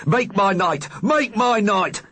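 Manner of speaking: high hammed-up vampire cry; shouting. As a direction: leap out yelling the catchphrase.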